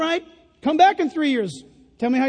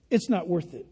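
hushed repeat; 7 semitones lower, 7 dB quieter than usual. Shown as a demonstration.

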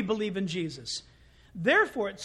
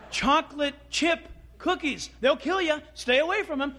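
hammed-up warning, pitched higher; mock dire warning; 4 semitones higher, 3 dB louder than usual. Adult keeping kids away from cookies, mock dire warning. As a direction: exaggerate the danger as if to scare children off.

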